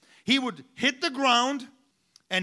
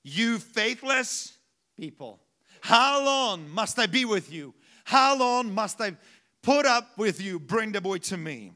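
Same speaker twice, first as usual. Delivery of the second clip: angry rebuke. Retold or imitated. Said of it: "Why did he get angry?".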